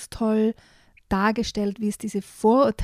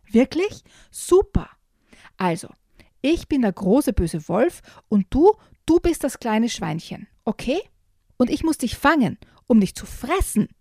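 thrilled; 5 semitones higher than usual. Acted. Jojo finally finding a playmate in Luis, thrilled. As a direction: squeal it out overjoyed. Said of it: "ruft Jojo ganz begeistert".

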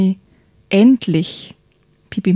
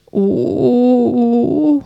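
put-on childlike prince; 4 semitones higher than usual. Prince voiced in story.

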